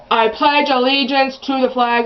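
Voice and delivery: mom's pledge said a bit loud; loud and obnoxious. Retold or imitated. Mom reciting the pledge in the office, loud and obnoxious. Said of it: "friggin' loud and obnoxious".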